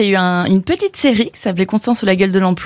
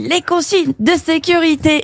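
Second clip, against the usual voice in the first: eager passenger; 6 semitones higher, slower than usual. Retold or imitated. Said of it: "tous les mecs faisaient".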